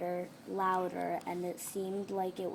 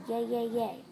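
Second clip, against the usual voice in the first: higher, louder cheering; excited cheer; 4 semitones higher, 5 dB louder than usual. A narrator's reading. Ernie cheers at gaining a friend, excited. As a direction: bounce with pure joy. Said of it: "Ernie was so excited".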